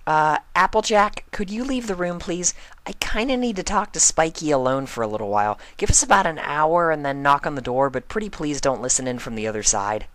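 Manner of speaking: high, bubbly cartoon pony; Pinkie Pie voice. Pinkie asking Applejack to leave, high and bubbly.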